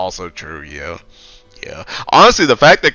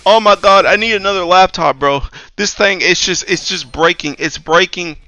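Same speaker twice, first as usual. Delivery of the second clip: mock whiny plea, a bit higher; whiny coworker; 5 semitones higher than usual. Mocking a whiny coworker begging IT for a laptop, higher whine. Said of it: "some people be so whiny".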